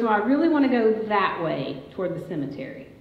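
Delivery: put-on a light child's voice, pleading a little; lightly playing the boy who wants to go his way; voicing her son. Son Boone answers on a walk.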